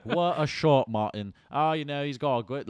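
loud, high goal call with a laugh; excited commentator. Retold or imitated. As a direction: scream it like a British commentator. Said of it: "I wanna hear Martin Tyler and Alan Smith".

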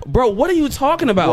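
high-pitched retold disbelief, squeaking up on "are". Retelling how he answered the girl, high stunned disbelief. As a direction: replay his own stunned reaction in a high voice.

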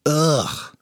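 short fed-up "ugh"; exasperated groan. A narrator's reading. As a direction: groan in mild disgust. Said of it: "groaned Carly".

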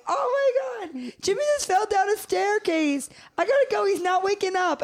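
high-pitched, frantic retelling of an emergency call; hammed-up high alarm; acted-out panic. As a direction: imitate yourself panicking on the phone. Retold panicked call to mom.

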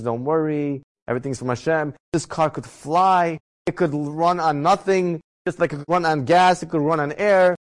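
a touch of calm, drawn-out reassurance; calm wife. Retold or imitated. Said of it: "my wife is always calm".

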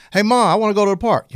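put-on high, loud pleading child; whiny kid. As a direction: beg like a kid. Kid voiced asking mom.

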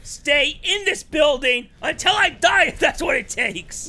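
high, loud mock-heroic vow; defiant excitement. Defiant vow to keep going.

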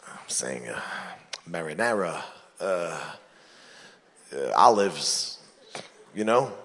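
low, hushed mobster whisper; whispered code. Acted. Goon whispering coded news to the big boss, hushed. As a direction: whisper the code so nobody hears.

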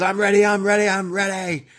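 high-pitched mock hype, retold; amped up. Host voicing a wrestler backstage before her match, amped up. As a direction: imitate someone psyching themselves up in a high voice. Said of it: "She's getting amped up".

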